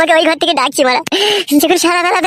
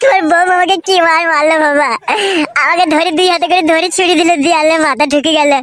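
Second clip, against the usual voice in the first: crying complaint. Acted. Son complains of being beaten.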